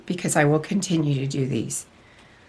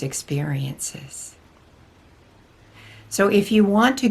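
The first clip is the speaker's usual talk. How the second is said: lightly voiced spiritual teacher, measured and deliberate; channelled Archangel Michael. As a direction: deliver a solemn channelled message with long pauses. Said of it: "Archangel Michael especially has been interested in coming through".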